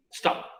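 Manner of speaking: "Stop" in a single syllable; one-syllable stop. Shown as a demonstration. Teacher showing the word is only one syllable, stop as one syllable. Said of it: "Es solamente una sílaba".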